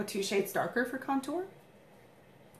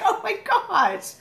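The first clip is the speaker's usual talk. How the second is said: mock shock; 11 semitones higher, 6 dB louder, much slower than usual. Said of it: "I was like".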